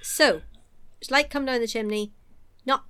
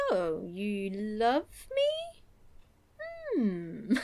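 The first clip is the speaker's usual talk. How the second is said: mock tearful; 5 dB quieter, much slower than usual. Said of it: "she, weirdly, is like".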